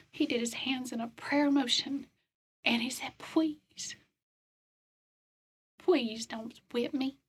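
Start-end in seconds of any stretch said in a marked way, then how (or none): 3.2-7.2 a hint of a cartoon duck begging; mild Donald Duck plea, mostly own voice. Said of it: "he said in his Donald Duck voice".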